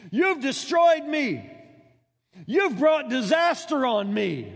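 slow, drawn-out aggrieved lament; mock anguished father. Preacher voices Jephthah's self-pity at his daughter, slow mock lament. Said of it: "he cried out".

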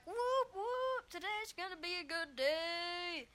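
high, giddy put-on voice, cheering; gleeful inner voice. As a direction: celebrate like a kid who got a day off. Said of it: "Another part of me was like".

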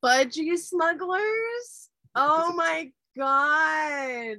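stretched-out amazed reaction; incredulous surprise. Real, not acted. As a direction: say it like you can't believe the phrase exists. Hearing strange Aussie slang.

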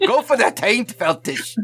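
a talking sword's Scottish brogue, urging; Scottish brogue egging on. Acted. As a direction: urge him on in a rough Scottish brogue. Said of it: "his Scottish accent's terrible".

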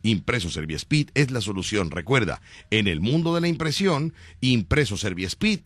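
upbeat commercial announcer read; radio ad read. Acted. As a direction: sell it like a radio spot. Reads a radio ad.

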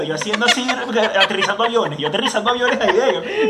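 laughing while telling it; amused storytelling. Real, not acted. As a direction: giggle through the image.

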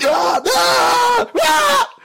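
high yelled "ah ah ah"; loud high mock scream; imitated screaming. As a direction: mimic a sudden Tourette's scream. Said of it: "screaming, like".

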